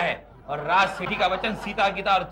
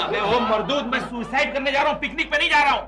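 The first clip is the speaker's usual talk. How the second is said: rising indignant outburst; exasperated scolding; 4 semitones higher than usual. Acted. Husband scolding brother-in-law during his suicide act, rising and exasperated. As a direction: climb higher as the irritation builds.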